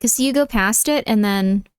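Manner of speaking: put-on lazy valley girl talk; breezy valley girl, lots of like. Shown as a demonstration. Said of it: "redeem Valley Girl voice".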